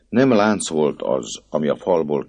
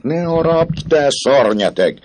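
much higher and louder, a desperate cry; girl crying out; 9 dB louder than usual. Acted. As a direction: scream at him to stop biting. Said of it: "kiáltotta a cigánylány". (rémült, magas, hangos kiáltás)

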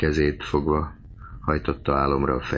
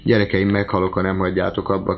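raised, pleading cry; distressed plea, moderately raised; 3 semitones higher, 3 dB louder, faster than usual. A narrator's reading. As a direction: beg them to stop, voice lifted. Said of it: "kiáltott az aggastyán".

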